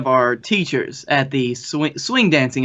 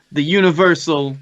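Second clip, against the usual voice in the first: ringmaster. Acted. Announces co-host.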